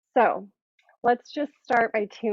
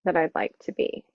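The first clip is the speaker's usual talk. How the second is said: calm, measured meditation guiding; guided meditation; 2 semitones lower than usual. Acted. Yoga teacher inviting students to set an intention, guided meditation. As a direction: lead them gently into reflection, pausing between phrases.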